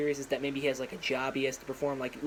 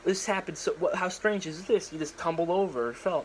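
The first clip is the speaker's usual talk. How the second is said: mafia boss; 4 semitones higher, 3 dB louder than usual. Retold or imitated. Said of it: "the big mafia boss guy's like".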